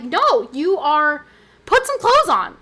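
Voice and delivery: high, loud scolding retort; mock scolding. Streamer retelling her retort to fairy costumes, mock scolding. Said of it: "And I'm like".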